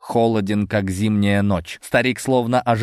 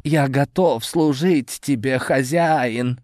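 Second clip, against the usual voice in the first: submissive; 5 semitones higher, slower than usual. A narrator's reading. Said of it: "Голос его был полон покорности".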